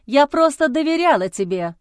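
high loud shout; wife shouting to cut off his accusations. Acted. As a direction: cry it out over him. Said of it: "закричала я".

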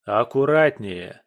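slow loud reproach; sharp rebuke. Acted. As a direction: snap at her to be careful. She slams the door.

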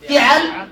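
فعل as fi'al, i then a; kasra then fatha. Shown as a demonstration. Teacher models remaining four patterns, kasra then fatha. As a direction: say فعل with i on f, a after ayn. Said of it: "كسر الفاء مع تربيع العين".

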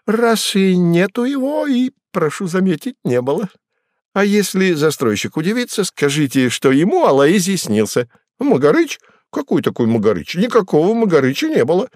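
a sly trickster toying with them; mocking Koroviev. Koroviev voiced by reader.

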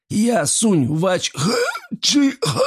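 very high, slow garbled spitting; sputtering. A narrator's reading. Enraged gremlin spits at the girls, sputtering. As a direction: spit and sputter mangled words. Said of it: "стал плеваться".

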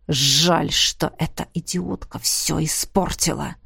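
low, soft sinister elf; elf's voice. A narrator's reading. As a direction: murmur it low right at her ear. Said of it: "голос эльфа". (низкий тихий голос эльфа)

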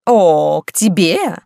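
a countess bristling with outrage; indignant drawl. Acted. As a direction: scoff at her rival's claim. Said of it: "возмущённо протянула графиня".

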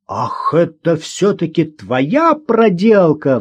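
slow mock roar, not very loud; a narrator's understated bellow. A narrator's reading. Gosha finds out the girl's prank, a hint of a roar. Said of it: "взревел Гоша".

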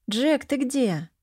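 anxious call for a lost pet; worried call. Acted. Owner calling her missing pet, mildly worried. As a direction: call out, a touch uneasy. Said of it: "обеспокоилась я".

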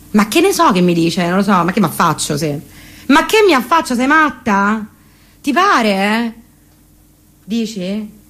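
put-on chattering Parioli girl on the phone; posh Roman girl. Flami complaining to her friend about the ex downstairs, lightly voiced posh girl. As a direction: gossip breathlessly to a friend.

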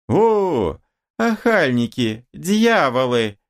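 high, wailing woman's curse; woman crying out at her assailants; outraged woman. A narrator's reading. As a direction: curse the attackers in a high cry. Attacked woman cursing the men.

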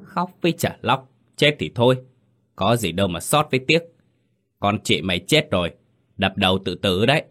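irritated scolding. Acted. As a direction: brush off the girl's tears with annoyance. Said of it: "khó chịu nói".

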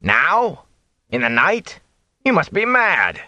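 high, startled watchman voice; exclaiming watchman. Acted. Watchman to travelers at night, high exclaiming voice. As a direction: blurt it out in disbelief.

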